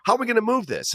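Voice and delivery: high, hammed-up Brooklyn accent. Warehouse boss asking how to sell the junk, hammed-up Brooklyn accent. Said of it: "some kind of Brooklyn accent whenever I'm doing this guy".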